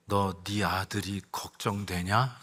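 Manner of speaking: a lightly voiced God asking the speaker about his son. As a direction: ask it slowly and low, like God probing the heart. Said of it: "하나님께서 저에게 이런 음성을 들려주세요".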